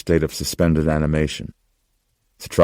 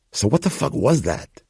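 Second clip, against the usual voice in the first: put-on much higher young tough, agitated; rattled young man demanding answers; Gus, demanding; 9 semitones higher than usual. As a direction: spit it out like a rattled street kid.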